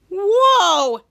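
a loud, startled gasp of wonder; amazed whoa. Retold or imitated. Henry gasping loudly at the new glass hat, amazed. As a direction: blurt it out, stunned by the hat.

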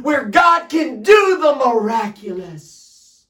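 forceful, urgent sermon delivery; full-force preaching. Acted. Preacher rousing listeners at home to respond to God, full-force preaching. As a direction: drive each phrase home to rouse the congregation.

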